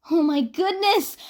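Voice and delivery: high, slow, gushing; excited gasp. A narrator's reading. Mizuki gossiping about An's coworker, excited and high. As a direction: squeal over the gossip.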